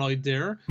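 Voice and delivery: "idea" closed on a hard R; strong southern R. Shown as a demonstration. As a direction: sound an R at the end of "idea". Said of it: "we really pronunciate our R's".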